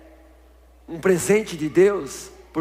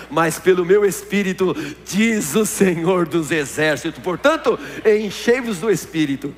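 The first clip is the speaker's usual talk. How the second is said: preaching at full force. Acted.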